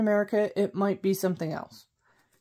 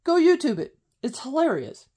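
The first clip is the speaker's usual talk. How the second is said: excited; 7 semitones higher, 4 dB louder than usual. Real, not acted. Urging viewers to look it up.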